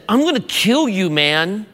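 teasing tone, lighter pitch; joking tone. Shown as a demonstration. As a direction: toss it off as a friendly joke. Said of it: "If I changed the tone and said".

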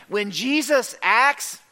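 slow, suspended "When Jesus acts"; drawn-out setup rising on "acts"; rhetorical build. Real, not acted. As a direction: lift "acts" and leave it hanging. Preacher's contrasting refrain.

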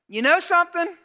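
high, loud confrontational voice; acted-out tenacious complaint; aggressive Martha. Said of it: "She's a bit aggressive".

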